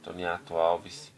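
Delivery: slow. Pretend. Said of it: "vou olhar pra câmera e falar".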